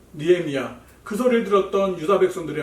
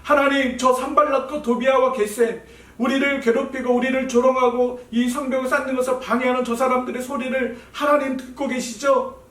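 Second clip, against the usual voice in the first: earnest prayer; 5 semitones higher than usual. Acted. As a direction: cry out to God for help. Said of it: "기도하기 시작했어요".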